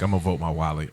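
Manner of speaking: low, softly spoken aside; quiet voter. Retold or imitated. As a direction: say it quietly, as a private admission. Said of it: "just quietly like".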